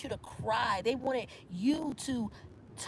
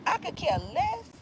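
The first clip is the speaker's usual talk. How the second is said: mock dismissive; 3 semitones higher than usual. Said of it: "you was like".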